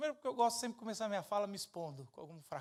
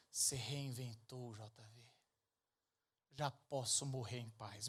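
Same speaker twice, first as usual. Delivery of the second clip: lower, slow fatherly voice; a hint of a solemn old father; quoting his father; 7 semitones lower, 5 dB quieter, slower than usual.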